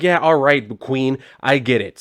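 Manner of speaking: sassy, dismissive "Queen, I get it" with a slow drawn-out Queen; mock-diva eye-roll; sassy brush-off. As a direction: roll your eyes and wave them off, sassy. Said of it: "well, he didn't say Queen, I'm throwing that in there".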